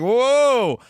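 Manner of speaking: a high, loud mock gasp of wonder; hammed-up amazement at the shiny tools; amazed whoa. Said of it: "And he's like".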